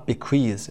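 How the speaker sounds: bequeath stressed on the second syllable, queeze; stress on queath. Shown as a demonstration. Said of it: "استرسش هم روی Q هست". (تکیه روی بخش دوم bequeath)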